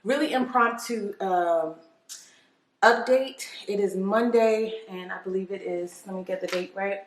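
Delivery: distant, roomy sound; mic not hooked up; far from mic. Real, not acted. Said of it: "I know I sound far away".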